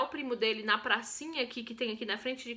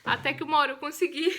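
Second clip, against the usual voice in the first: said through a laugh, louder; laughing retake; 4 dB louder, faster than usual. Shown as a demonstration. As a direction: laugh while repeating it. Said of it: "Nossa, esse vídeo vai ficar". (rindo enquanto repete)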